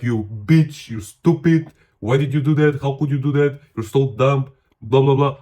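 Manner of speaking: playful tirade at a friend; acted scolding of a buddy; mock criticizing. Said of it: "I'm criticizing this guy".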